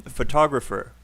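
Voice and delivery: photographer with the stress on TOG; hum-like stress on the second syllable of photographer; stress demo. Shown as a demonstration. Teacher demonstrating word stress, photographer stressed on TOG. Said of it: "just to give you an example".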